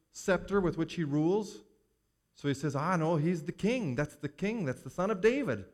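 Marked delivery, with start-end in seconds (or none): 2.7-5.6 raised, eager declaration that Jesus is king; excited proclamation. Acted. Blind man hailing Jesus as king, excited and raised. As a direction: announce it with rising wonder, a bit higher.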